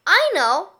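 put-on a know-it-all kid bursting in with an idea; excited exclamation. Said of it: "exclaimed one know-it-all".

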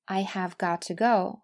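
"have got to" in full with a crisp t; careful full form. Shown as a demonstration. Teacher points out the grammatical forms, careful full form. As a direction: say "got to" as two separate words. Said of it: "前两种说法".

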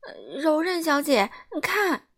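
startled alarm; panicked cry. Acted. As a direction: point and panic. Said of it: "他惊慌地喊道".

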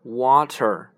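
water stressed clearly; model word. Shown as a demonstration. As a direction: say water with a crisp t. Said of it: "我们在说一个水".

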